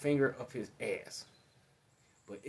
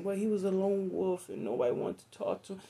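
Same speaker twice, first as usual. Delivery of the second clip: higher, mock official media voice; mock news spin; 8 semitones higher than usual. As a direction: parody a newscaster spinning the story. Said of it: "They just gonna try to make it seem".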